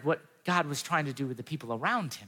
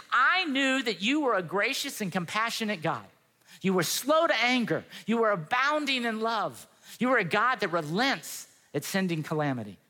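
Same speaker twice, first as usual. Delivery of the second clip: upset retelling; 4 semitones higher than usual. Retold or imitated. Upset Jonah complaining to God about His compassion, mock complaint. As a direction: imitate an upset prophet, pitch lifted on key words. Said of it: "he's upset".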